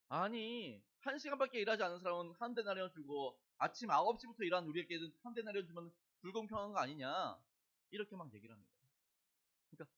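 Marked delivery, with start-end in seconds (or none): 0.1-7.4 loud, aggrieved protest; complaining workers. Retold or imitated. Morning workers complaining to the vineyard owner, loud and aggrieved. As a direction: protest that it's unfair. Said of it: "불평하는 거죠".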